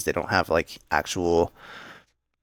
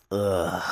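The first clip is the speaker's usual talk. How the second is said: mock groan of disgust; acted-out grossed-out groan; disgusted "ugh"; 3 dB quieter than usual. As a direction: let out a revolted "ugh". Disgusted reaction to bug on can.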